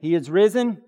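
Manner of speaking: loud liturgy call. Shown as a demonstration. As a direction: call it out to the congregation. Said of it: "let's try that again".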